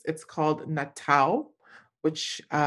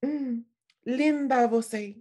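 seductive compliment; 7 semitones higher than usual. Retold or imitated. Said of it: "She was like".

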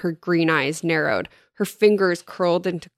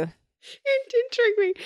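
rueful; slower than usual. Real, not acted. Admits being fooled.

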